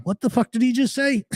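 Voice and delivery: high-pitched disbelief breaking into laughter; incredulous reaction. Retold or imitated. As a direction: re-enact baffled amusement, pitch way up. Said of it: "And I'm, like, going".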